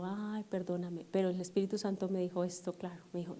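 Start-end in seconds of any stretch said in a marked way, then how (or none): 0.0-1.1 slower and much softer sorry, holding back; drawn-out sheepish apology; hesitant apology. Retold or imitated. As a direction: say it reluctantly, almost to yourself. Repeats apology, hesitant, Spirit pushing.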